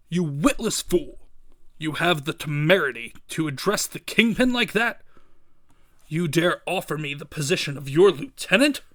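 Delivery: imperious crime boss, outraged; deliberate, scornful villain with punched words; indignant Kingpin. Acted. Kingpin berates the man.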